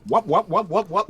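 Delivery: high, loud comic whoops; Stooge-like whooping. Acted. Player mimicking the last stooge walking up, whooping. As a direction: whoop like a slapstick stooge, laughing. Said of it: "just walk up like".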